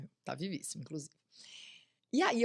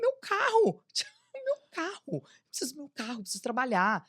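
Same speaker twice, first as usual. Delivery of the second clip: crying to her friend about the car; retold crying; 8 semitones higher than usual. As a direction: wail about the lost car. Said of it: "e eu chorando".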